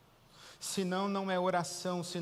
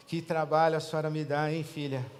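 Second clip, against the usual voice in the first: weary God. Retold or imitated. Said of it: "Deus ouve aquela mulher e fala assim".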